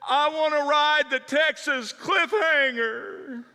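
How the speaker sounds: put-on high, slow, loud whiny kid; whiny child demand. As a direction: drag it out like a stubborn boy.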